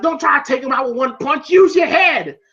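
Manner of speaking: mock cornerman's yell, rising in pitch; urgent coaching. Manager telling his boxer, urgent coaching. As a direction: build to a high exhortation. Manager shouting advice, retold.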